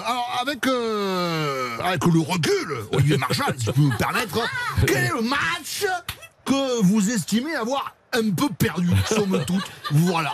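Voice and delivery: lightly hammed southwestern French accent; half-time interviewer with a Sud-Ouest twang. Host interviews the rugby coach in a mock southwestern accent. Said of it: "je vais la faire avec l'accent".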